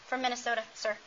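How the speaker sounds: ordinary talk, nothing marked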